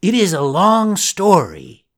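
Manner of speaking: a lightly voiced boy telling his tale; Pinocchio voice. Pinocchio's voice in story.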